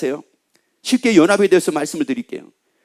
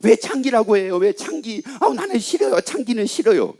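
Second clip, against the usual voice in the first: higher-pitched mock objection; imitated complaint; 4 semitones higher than usual. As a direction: lightly voice a protesting churchgoer. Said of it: "어떤 분이 그래요".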